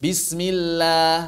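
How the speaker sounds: "Bismillah" very slow, each syllable stretched; over enunciating. Shown as a demonstration. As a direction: drag out "Bismillah" slowly. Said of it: "Yang enggak boleh itu lah".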